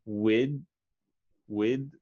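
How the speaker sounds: "With" held at the d with the mouth in position; "With" with a clear d before the th; stop at the d. Shown as a demonstration. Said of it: "say it until the D and leave your mouth".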